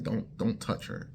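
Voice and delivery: breathy whispered don't touch her; hushed warning. Retold or imitated. Whispering a warning about the girl who hates being touched. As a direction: whisper the warning like a secret rule.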